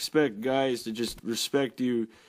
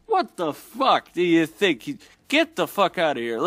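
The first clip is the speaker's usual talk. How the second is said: outraged shout; 5 semitones higher, 4 dB louder than usual. Real, not acted. Ranting vlogger yells at the absurd commenter, outraged. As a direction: blast the absurd idea away. Outraged at his own example.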